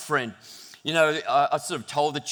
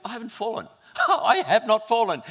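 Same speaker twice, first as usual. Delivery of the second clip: high, giggling self-congratulation; laughing smugly; 7 semitones higher, 3 dB louder than usual. Retold or imitated. Rob gloating to himself on the bike, laughing. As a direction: chuckle at your own luck. Retelling his smug ride back.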